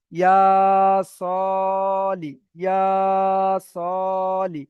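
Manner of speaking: ইয়া সলি with ইয়া and স held long, লি short; sustained ইয়া and স, unstretched লি; two equal elongations. Shown as a demonstration. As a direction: stretch both vowels before a brief লি in ইয়া সলি. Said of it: "দুটোই টান হবে".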